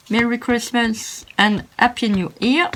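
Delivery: slow English with a French accent. Real, not acted. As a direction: read out the greeting slowly, heavily French-accented. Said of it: "excusez-moi pour mon anglais". (anglais avec un accent français)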